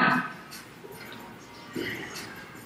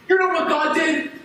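raised, high-pitched furious complaint; angry rant; 4 semitones higher than usual. Acted. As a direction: vent at your parents, voice climbing. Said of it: "I was so angry".

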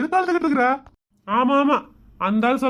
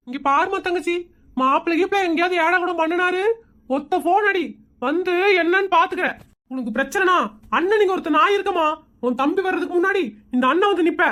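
higher, consoling brother voice; doting big brother; 4 semitones higher than usual. Acted. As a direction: comfort the crying sister as her brother. Brother voice reassuring sister again.

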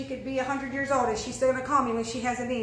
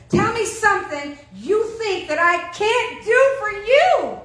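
higher, louder bold challenge; a lightly voiced God daring you to ask; 8 semitones higher, 7 dB louder than usual. Preacher voicing God daring the congregation, bold and louder. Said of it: "God says".

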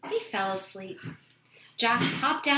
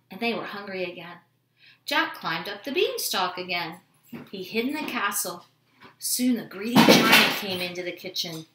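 ordinary delivery, nothing marked

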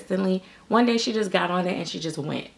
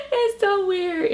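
higher, giggling through the words; laughing; 14 semitones higher, slower than usual. Real, not acted. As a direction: laugh while you admit it.

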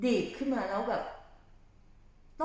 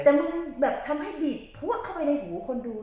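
emphatic pep talk; 6 semitones higher, 7 dB louder than usual. Retold or imitated. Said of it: "พี่จะบอกให้ว่า".

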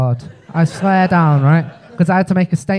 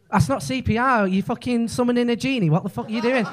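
incredulous mock; 6 semitones higher, 5 dB quieter than usual. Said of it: "And they went".

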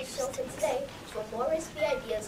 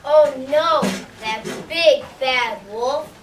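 distressed pig; 7 dB louder than usual. Acted. Pig in an insurance ad complaining about the wolf, loud and upset.

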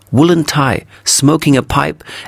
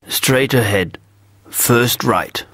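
put-on softer, curt and clipped old gentleman; gruff old man; 2 semitones higher, 3 dB quieter, slower than usual. Offended old man giving directions, mildly gruff. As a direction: brush him off, a lightly voiced grumpy local. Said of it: "he said gruffly".

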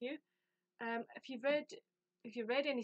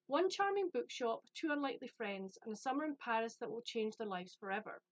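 blurb read-aloud. Acted. Reading the premise to viewers, storytelling read-aloud. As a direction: read it like a book trailer.

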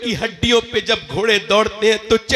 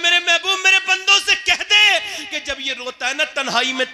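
solemn proclamation; 10 semitones higher than usual. Acted. Voicing God's address.

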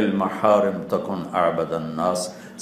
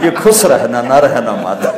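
laughing answer; 5 dB louder than usual. Acted. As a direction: laugh out the punchline. Fisherman's witty answer. (ہنستے ہوئے جواب)

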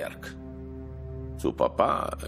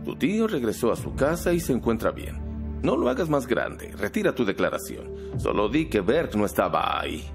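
insistent pressing; 6 semitones higher than usual. Acted. Pressing boy to retract statement.

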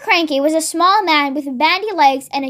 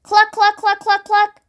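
high, staccato hen noises; hen clucking; 4 semitones higher than usual. A narrator's reading. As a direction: cluck like a big broody hen. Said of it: "the big brown hen ... went cluck".

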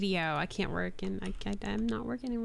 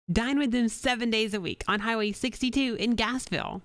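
radio ad read; 2 semitones higher than usual. Acted. Reads radio ad copy.

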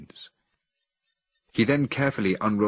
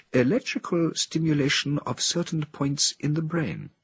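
raised, measured voice of an ape scientist, hinting at secrets; lightly voiced Helios, full of mystery; proud researcher showing off his secret lab; mysterious scientist; 8 semitones higher than usual. A narrator's reading. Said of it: "he said with a mysterious air".

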